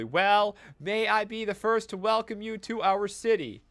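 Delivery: over-enunciate as if to the hard of hearing. Acted. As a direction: matron talking slowly to a tribal, loud. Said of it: "She raises her voice and starts speaking slowly".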